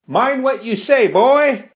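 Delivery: high, sharp interjection; heckler's warning. A narrator's reading. Crowd member warns the professor, high heckling interruption.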